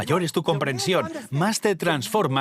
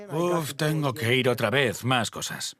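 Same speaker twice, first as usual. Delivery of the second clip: weary grumble. Retold or imitated. Grudging churchgoer complaining.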